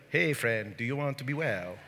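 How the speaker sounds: a mild impression of a kindly screen Jesus; Jonathan Rumi. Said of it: "He talks like however Jonathan Rumi talks".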